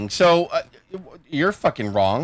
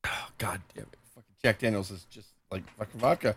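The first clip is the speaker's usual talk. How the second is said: unvoiced, much softer curse; strained whisper; 7 semitones lower, 11 dB quieter than usual. Real, not acted. Friend choking down whiskey, breathless whisper. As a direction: gasp it out after the shot. After burning shot.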